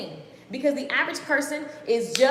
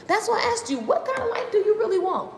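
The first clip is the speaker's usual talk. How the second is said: laughing, pitched high; giggling question; 8 semitones higher than usual. Real, not acted. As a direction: ask it through laughter.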